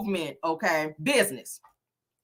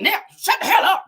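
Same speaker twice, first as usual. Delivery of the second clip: high, loud mock yell; imitated snapping; 12 semitones higher, 7 dB louder than usual. Retelling Nell snapping off at the table, high mock yell. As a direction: act out a sudden furious shutdown. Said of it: "once Nell snapped off".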